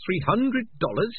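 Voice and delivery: Three hundred dollars? rising high in shock; shocked disbelief. A narrator's reading. Morris stunned by the piper's fee, high rising. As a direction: gasp it up high.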